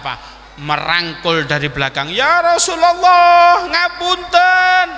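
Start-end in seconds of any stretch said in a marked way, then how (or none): 2.1-4.9 high, loud, drawn-out wail; acted tearful outcry; crying plea. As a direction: wail slowly for forgiveness. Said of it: "Mbek nangis ngrogoh".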